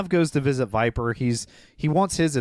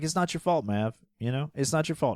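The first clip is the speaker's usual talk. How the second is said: soft consoling; 5 dB quieter than usual. Retold or imitated. Comforting Maverick in scene.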